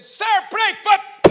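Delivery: high, loud, stretched plea cut off; desperate shout. Retold or imitated. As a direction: yell the plea as he passes. Shouting at the preacher's passing.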